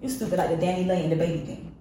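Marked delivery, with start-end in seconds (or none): 0.0-0.4 mock judgment. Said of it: "pass judgment and be like".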